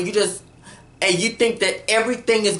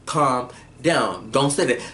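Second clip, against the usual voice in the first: calming; 6 semitones lower than usual. Retold or imitated. Acted calming of upset Jeffrey.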